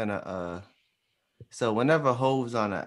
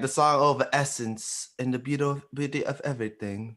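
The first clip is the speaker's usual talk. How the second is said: put-on British accent. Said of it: "That's my British accent".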